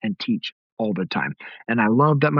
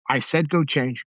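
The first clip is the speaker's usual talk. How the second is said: dad insists the daughter go change, firmly; firm order; 3 semitones higher than usual. Retold or imitated. Dad repeats the order to change with mild firmness. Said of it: "I would be like".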